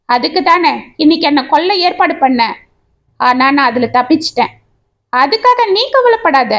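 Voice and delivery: bitter taunting, understated rage; snarling. Acted. Betrayed husband throwing his wife at his friend, mildly snarled. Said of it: "என்று சீறினான்".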